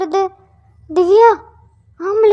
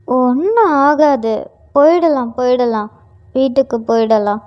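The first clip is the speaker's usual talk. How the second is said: soothing; 5 semitones lower than usual. Acted. Grandmother soothing.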